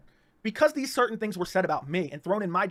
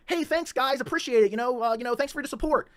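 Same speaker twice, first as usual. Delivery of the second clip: higher, eager thank-you to the chat; mock friendly thanks; 5 semitones higher than usual. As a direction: play up how nice and grateful you were. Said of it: "here I am like".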